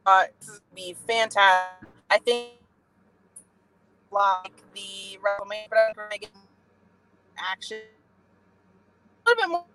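cutting in and out like a weak phone line; crackly cordless phone. Real, not acted. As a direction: voice breaking up on a bad connection. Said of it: "the caller is fading in and out on us".

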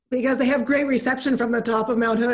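breaking into real laughter; laughing at the end of the phrase; amused. Real, not acted. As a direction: let the words tip into a laugh. Joking about summit phone reception.

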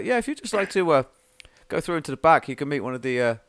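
desk sergeant. Acted. GM voices sergeant returning.

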